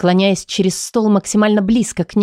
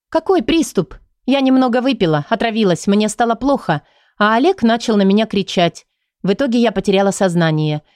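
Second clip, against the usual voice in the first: open sarcasm. Acted. Patient mocking the psychologist's word, lightly sarcastic. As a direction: throw her words back with a sneer. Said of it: "с нескрываемым сарказмом отвечаю я".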